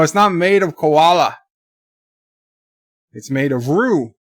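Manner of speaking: hammed-up Australian accent; Aussie accent. Aussie bragging to viewers about local beer, in a put-on Australian accent. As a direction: boast like a comic Aussie. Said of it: "it's my Aussie accent".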